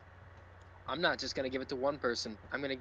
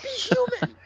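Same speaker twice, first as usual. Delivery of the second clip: much higher, exasperated yell; high, fed-up outburst; ranting yell; 4 dB louder, slower than usual. Real, not acted. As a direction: yell it at the fans in disbelief. Ranting at the fans.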